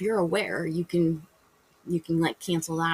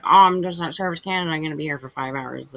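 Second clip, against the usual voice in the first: fast, loud grumbling at first, then settling; texting a friend a moaning reply; whiny complaint; 4 dB louder, faster than usual. Retold or imitated. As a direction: complain to a friend about the long wait. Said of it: "And you're like".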